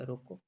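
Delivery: रोको on its own, ending on a rise, then a stop; pause after रोको. Shown as a demonstration. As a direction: lift the end of रोको and halt. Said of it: "रोको के बाद".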